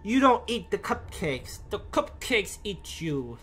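put-on slow half-hearted Russian accent; a lazy Russian-comedian bit, barely trying; horrible Russian accent. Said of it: "That was a horrible Russian accent".

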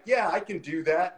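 a hint of salesman assurance; used car salesman. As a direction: lightly imitate an eager used car salesman. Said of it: "used car salesman approach".

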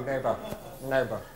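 ordinary talk, nothing marked

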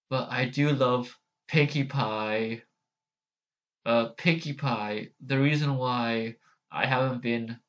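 lightly voiced deadpan character; Maud Pie. Sister explaining her absence, understated deadpan. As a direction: say it evenly, unhurried, with long gaps. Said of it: "Oh, Maud Pie, I could probably do".

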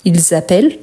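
"Ils appellent" with a z before "appellent"; marked liaison. Shown as a demonstration. Teacher makes the plural clear, marked liaison. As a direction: link "Ils" audibly to "appellent" with z. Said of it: "c'est bien de remarquer la liaison".

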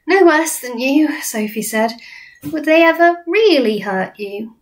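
put-on high, slow little girl, concerned; Sophie. Sophie asking the BFG, high little girl. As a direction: ask with a worried child's lift.

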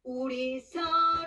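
"우리 서로" luider en langzaam gezongen; krachtig gezongen. Shown as a demonstration. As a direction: tweede keer 강하게, krachtig. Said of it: "나중에는 강하게".

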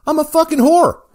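high, loud self-mocking cry; loud mock confession. Real, not acted. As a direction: shout it out in mock shame.

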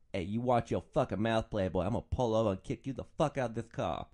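lightly voiced tough-pimp persona; hint of a brain-damaged pimp act, threatening; Big Daddy Caddy. Driver snapping at annoying passengers, in mock pimp voice. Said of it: "I'd do it in the Big Daddy Caddy voice".

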